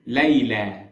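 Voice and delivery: Layla said as "lai-laa" with open a sounds; Arabic Layla meaning drunkenness, "lai-laa"; second pronunciation. Shown as a demonstration. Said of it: "the second pronunciation is".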